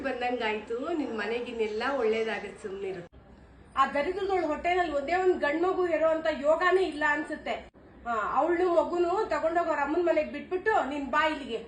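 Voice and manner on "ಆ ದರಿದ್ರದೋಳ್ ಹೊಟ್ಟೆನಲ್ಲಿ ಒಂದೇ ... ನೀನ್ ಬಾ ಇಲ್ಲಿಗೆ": higher, louder bitter scolding; loud spiteful tirade; angry rant. Acted. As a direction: rail against the daughter-in-law. Mother-in-law curses daughter-in-law.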